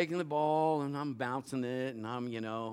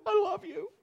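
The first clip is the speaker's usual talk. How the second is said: high sweet mock plea; sheepish reply; 3 dB louder than usual. Pastor mimicking his own sheepish reply to his wife. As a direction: play innocent with a high sweet voice.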